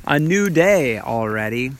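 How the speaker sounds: hushed sparse haiku. Shown as a demonstration. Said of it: "here's a haiku about that idea".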